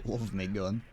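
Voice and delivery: lightly attempted British accent. Reading a quote to stream viewers, attempted British accent. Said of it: "trying to do whatever the accent is".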